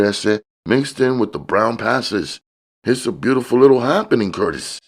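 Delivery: high, smooth hustler voice; high-voiced dealer showing off; George, slick dealer.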